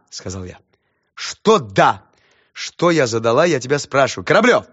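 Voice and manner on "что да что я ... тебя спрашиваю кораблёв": high, loud, pressing teacher; teacher grilling a pupil; questioning teacher. Acted. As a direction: demand an answer.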